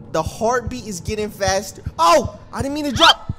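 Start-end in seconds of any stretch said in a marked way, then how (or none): 2.0-3.3 raised, louder startled yelp; panicked cry. Real, not acted. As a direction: blurt it out in alarm. Drops by accident in game.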